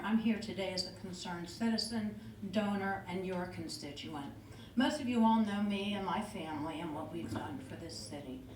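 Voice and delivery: nervous voice trembling slightly; trying to keep voice steady; steady voice with shaky moments. Real, not acted. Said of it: "my voice is shaking".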